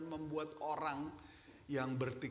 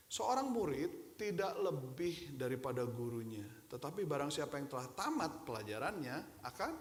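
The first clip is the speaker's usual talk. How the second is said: scripture reading; 3 semitones lower than usual. Shown as a demonstration. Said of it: "Lukas pasal enam ayat empat puluh bilang begini".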